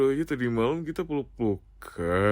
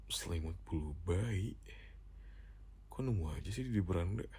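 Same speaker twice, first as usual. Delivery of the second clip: puzzled murmur; 5 semitones lower, 12 dB quieter than usual. Acted. Puzzled reading from phone screen.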